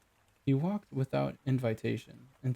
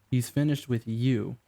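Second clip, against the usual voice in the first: slow, cutting in with satisfaction; smug interjection. Acted. Client cutting into the argument, slow and smug. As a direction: cut in, enjoying it. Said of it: "interjected Leonora Quinn".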